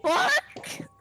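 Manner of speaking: high, startled-out exclamation; really loud. Acted. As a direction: blurt it out loud in character. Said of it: "They say that really loud".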